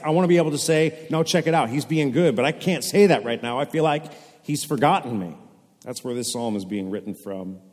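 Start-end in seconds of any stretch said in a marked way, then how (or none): 0.0-5.4 higher, louder, fast earnest plea; pleading psalmist. Retold or imitated. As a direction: voice the psalmist straining to defend God. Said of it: "'Cause he's like".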